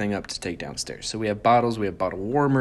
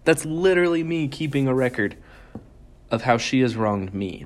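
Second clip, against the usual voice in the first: realization; 2 semitones higher than usual. Retold or imitated. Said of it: "And then I'm like".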